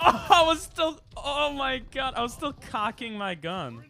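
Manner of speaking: loud high oh my God; frustrated outburst. Real, not acted. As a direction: blurt it out, exasperated. Killed while reloading.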